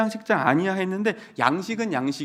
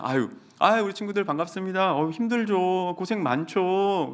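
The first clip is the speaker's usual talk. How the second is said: overly sweet greeting; 3 semitones higher than usual. Retold or imitated. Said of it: "질 수 없으니까".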